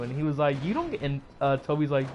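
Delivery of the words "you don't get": high quoted voice. Retold or imitated. Peter's quoted retort.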